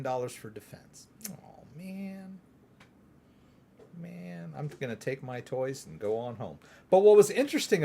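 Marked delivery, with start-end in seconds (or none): 1.3-6.6 soft, hammed-up childish grumble; mock sulking. Mimicking the holdout senator taking his toys home, mock sulking. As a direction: sulk quietly like a sore loser.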